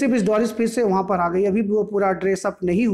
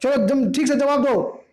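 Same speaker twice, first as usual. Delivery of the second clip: higher, mild mock yell; mother yelling, pitched up; mock shout; 5 semitones higher than usual. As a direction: order her to answer. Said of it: "चिल्ला के बोली".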